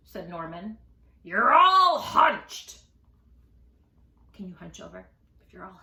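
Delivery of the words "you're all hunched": slow and loud; drawn-out observation. Acted. Norman remarking on Jim's hunch, slow and loud. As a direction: stretch out "hunched".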